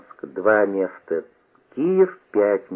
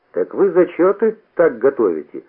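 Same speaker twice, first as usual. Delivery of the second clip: preachy; 5 semitones higher, 4 dB louder than usual. A narrator's reading. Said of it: "сказал назидательно Маремуха".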